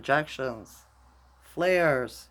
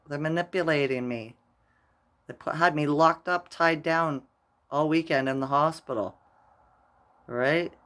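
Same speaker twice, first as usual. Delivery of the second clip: agitated; 3 semitones higher, 5 dB louder than usual. Retold or imitated. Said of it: "He says".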